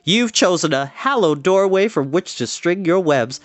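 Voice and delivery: earnest little speech as a pig; short formal speech. Acted. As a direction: deliver it like a proud welcome. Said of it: "make a short speech".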